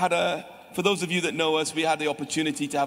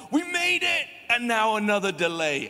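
exasperated; 5 semitones higher than usual. Retold or imitated. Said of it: "We're like".

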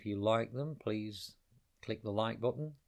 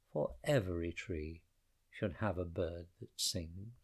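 put-on a gentle old tree speaking; sighing old tree; 4 semitones lower than usual. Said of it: "sighed Tree".

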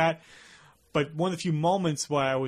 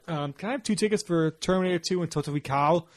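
Arnold inflection. Retold or imitated. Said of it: "I did not mean to put the inflection on".

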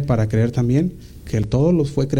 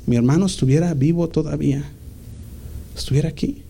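grieving plea; 5 semitones higher than usual. Acted. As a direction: plead like a grieving sister. Mary grieving, pleading to Jesus.

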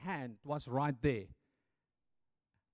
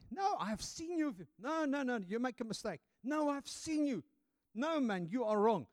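accusing bystanders; 9 semitones higher than usual. Acted. Bystanders accuse Peter of knowing Jesus.

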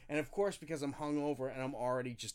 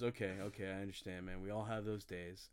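a hint of a softer, lower, calming manager; soothing manager; 6 semitones lower, 6 dB quieter than usual. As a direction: ease him down gently.

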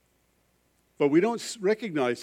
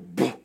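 furnace boom; 7 semitones lower than usual. Retold or imitated. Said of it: "hear it go".

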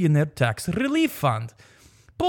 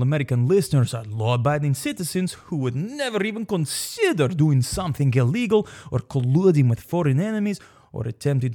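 hammed-up ad read in Russian accent; infomercial. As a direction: sell it like a late-night ad. Reads a mock commercial for law firm.

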